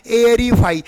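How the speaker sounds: एरीफाई starting on an "ay" sound; AER read as "ay-r". Shown as a demonstration. Teacher models AE before R, एरीफाई opening on "ay". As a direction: say एरीफाई with AE as "ay", not ee. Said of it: "ए ई का उच्चारण ए हो जाता है".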